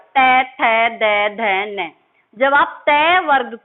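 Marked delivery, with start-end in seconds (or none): 0.1-1.9 तय थे दे धे ने said one by one with the tongue touching the teeth; letter recitation. Shown as a demonstration. Teacher sounding out the letters for students to try. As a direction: sound out तय थे दे धे ने clearly. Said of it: "बोल के देखिए आप".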